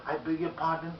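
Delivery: level, moderate "I beg your pardon"; polite query without raising the tone; not high-toned. Shown as a demonstration. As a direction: keep "pardon" down at a normal volume. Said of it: "Not in a high tone".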